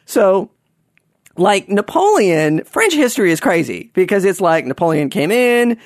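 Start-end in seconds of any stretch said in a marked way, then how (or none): none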